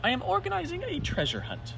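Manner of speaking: high, announcing read; reading out a poster. Acted. Percy reading his poster aloud to friends, announcing. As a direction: proclaim the poster like a notice. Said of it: "he read out loud".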